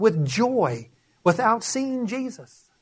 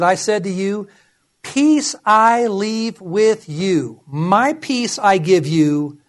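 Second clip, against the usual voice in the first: slow, measured Bible reading; scripture reading. Acted. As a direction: read the verse deliberately, weighing each phrase. Reads scripture aloud.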